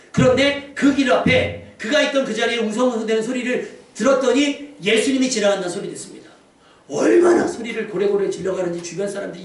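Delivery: pulpit storytelling with energy; preaching narration. Real, not acted. Preacher telling of the beggar by the road, preaching narration. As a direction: carry the Bible story to the congregation.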